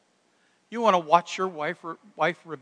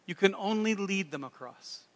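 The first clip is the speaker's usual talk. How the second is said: faint mock French accent; a modest stab at French-accented English; attempted French accent; 4 dB quieter than usual. Napoleon finishing his answer on leading, attempted French accent. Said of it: "That's the best French accent I got".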